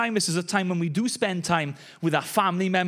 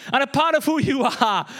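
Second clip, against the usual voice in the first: laughing; 6 semitones higher than usual. Real, not acted. Catching his own awkward phrasing, laughing. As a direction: giggle through the phrase.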